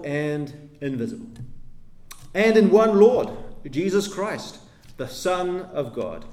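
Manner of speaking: slow, solemn reading of the creed, phrase by phrase. Shown as a demonstration. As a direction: read each line slowly and deliberately, like a confession of faith. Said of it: "I'll read it slowly".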